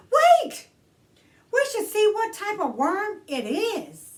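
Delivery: put-on a girl shouting to save the worm; excited shout. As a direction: shout it to stop her friend. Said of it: "Rosa shouted".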